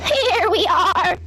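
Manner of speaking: high, very slow cheery call; cheerful sheep cry. A narrator's reading. Sheep call to Henry from the steps, high. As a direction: sheep dancing with joy. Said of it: "cried the sheep".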